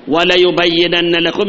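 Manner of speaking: وليبينن read slowly, open la, doubled nn; slow verse reading. Shown as a demonstration. Preacher reads the verse word to his class, slowly. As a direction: draw out وليبينن with a rising end. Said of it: "يعني والله يبين الله لكم".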